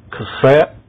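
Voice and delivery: usual speaking voice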